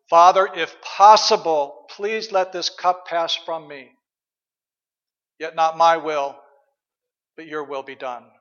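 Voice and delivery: Jesus praying. Pretend. Jesus praying in Gethsemane, slow anguished plea. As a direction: plead slowly, then yield. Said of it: "the example of Jesus himself".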